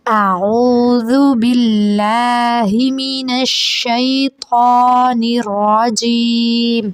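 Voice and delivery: slow, drawn-out chanted recitation; joined-up recitation. Shown as a demonstration. Teacher recites the words joined together. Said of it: "اسے ہم اعوذو پڑھیں گے".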